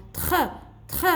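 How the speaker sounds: "Tr" as a short blend with throaty R; blended consonants. Shown as a demonstration. Teacher recalls the sound for children, blended consonants. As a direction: sound out "Tr" twice, separately. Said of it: "on a prononcé le T et le R comment".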